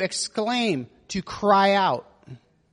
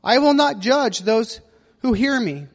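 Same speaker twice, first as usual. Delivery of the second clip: slow, mildly impassioned scripture monologue; lightly acted preacher's plea, drawn-out words; Jesus pleading to crowds. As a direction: plead with the crowd, long pauses between phrases. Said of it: "somewhat close to maybe how Jesus would have read this".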